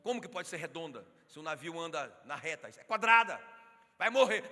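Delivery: shouted mock threat at the heretic, sudden loud burst at the end. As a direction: bark out the persecutor's threat. Persecutor threatens Galileo, mock.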